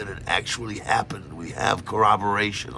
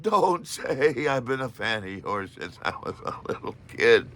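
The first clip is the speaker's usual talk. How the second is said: laughing warning; 3 semitones higher, 3 dB quieter than usual. Retold or imitated. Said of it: "my mind screams at me".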